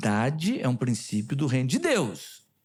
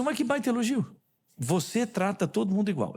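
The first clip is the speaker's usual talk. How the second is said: mock-delighted, pitched up, turning "Você trata todo mundo igual" into praise; ironic; 4 semitones higher than usual. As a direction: toss the insult back as a compliment. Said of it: "eu fui irônico". (elogio irônico, fingindo alegria)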